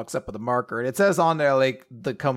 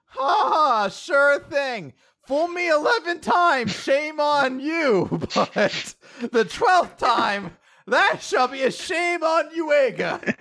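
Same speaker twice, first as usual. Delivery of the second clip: high, loud, slow pompous declaration; hammed-up smug hero; 14 semitones higher, 8 dB louder, much slower than usual. Yuiga boasting he won't be fooled, loud and pompous. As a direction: proclaim it like a vain hero. Yuiga hams up refusing kiss.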